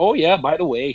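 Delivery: high, mock Minnesota Canadian twang. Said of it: "hold the fucking front door".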